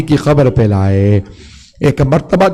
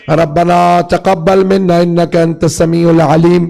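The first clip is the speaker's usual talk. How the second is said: level, chanted supplication; Arabic prayer recitation; 3 semitones higher than usual. Acted. Preacher closes the prayer in Arabic, chanting. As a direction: recite it evenly on a steady pitch.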